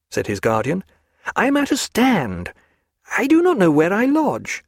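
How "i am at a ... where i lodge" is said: higher, dazed and weary; a tired man who has lost his bearings; weary lost Stephen. A narrator's reading. Stephen tells his guard he is lost, dazed.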